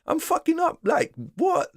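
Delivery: very high, panicky mock voice; mocking panicked winner. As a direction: play the rookie panicking over a big win. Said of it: "You're like".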